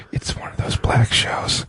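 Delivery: slow hushed whisper. Pretend. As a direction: whisper it slowly, secretly. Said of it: "they can still hear you".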